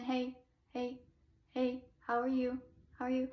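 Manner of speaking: chest-voice talky low notes; commercial-style low voice, close to speech. Shown as a demonstration. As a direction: sing it like speaking, low and casual. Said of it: "low voice is more speech-like".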